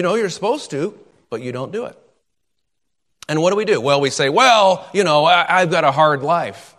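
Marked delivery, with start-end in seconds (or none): 4.3-6.7 louder drawn-in protest, easing off; mock excuse-making. Believer explaining away neglected duties, mock self-excusing protest. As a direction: plead hardship as an imitated excuse.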